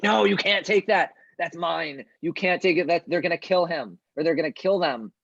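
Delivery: high-pitched, half-restrained desperate yell; acted yelling. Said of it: "she just starts yelling".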